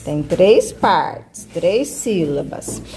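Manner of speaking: slow, drawn-out teacherly explanation; emphatic explaining. Shown as a demonstration. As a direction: stretch it slowly so the pupil takes it in. Teacher spelling out the answer.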